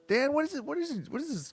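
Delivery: shrill disbelieving demand; real flustered shout; exasperated outburst. Real, not acted. Exasperated reader scolding.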